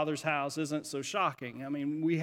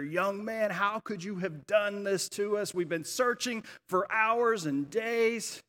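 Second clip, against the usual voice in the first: higher-pitched mock scolding, stretched at the end; angry blurting; 4 semitones higher, slower than usual. Mary scolding her son after days of searching, acted anger. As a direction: act out an exasperated mother's reproach. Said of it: "She blurts out in anger".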